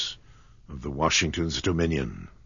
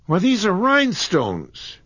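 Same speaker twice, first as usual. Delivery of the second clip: much higher, louder startled outcry; shocked discovery, pitched way up; surprised cry; 6 dB louder than usual. A narrator's reading. John finds the stones are fake, surprised cry. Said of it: "cried John".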